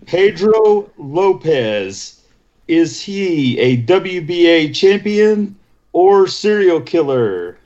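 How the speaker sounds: slow, drawn-out quiz host; game show host. Acted. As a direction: drag out the question like a host. Quiz host asking slowly.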